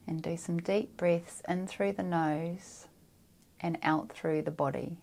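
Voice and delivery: calm, unhurried meditation guidance; guided meditation. Real, not acted. Meditation guide grounding listeners through breath and feet, calm and measured. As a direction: guide them down into the body with long pauses.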